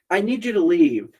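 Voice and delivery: laughing retort. Retold or imitated. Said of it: "I was like".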